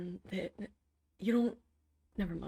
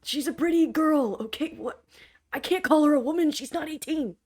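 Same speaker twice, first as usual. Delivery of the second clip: loud, flustered backpedalling; 7 semitones higher, 7 dB louder than usual. Acted. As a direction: talk fast to dig out. Drug dealer flustered, defending himself.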